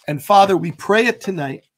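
measured prayer declarations, slowed on scripture. Acted. Pastor releasing joy over the congregation in prayer. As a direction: proclaim it like a closing prayer.

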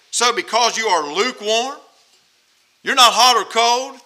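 emphatic, indignant pronouncement; heated scripture rebuke; mad warning. Acted. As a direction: read it as an angry threat, hitting the middle hard. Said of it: "I'm so mad I can spit nails".

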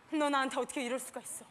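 low, restrained mock reproach; imitated angry boyfriend. Retelling the boyfriend's fight, low mock anger. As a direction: play the hurt boyfriend, low and soft. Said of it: "다짜고짜 나한테 막 화를 내면서".

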